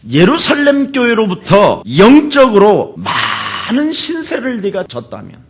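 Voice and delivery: high-pitched, forceful pulpit rebuke; rebuking preaching. Real, not acted. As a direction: scold the congregation with rising urgency. (높은 소리로 꾸짖는 설교)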